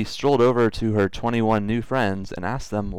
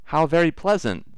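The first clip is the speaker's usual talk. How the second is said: cartoon princess; 8 semitones higher than usual. Princess voiced in read story.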